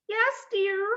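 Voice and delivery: high, scratchy fake grandmother. A narrator's reading. Wolf posing as Grandmother in bed, scratchy voice. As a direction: put on a high, scratchy old-lady voice. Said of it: "a scratchy voice from the bedroom".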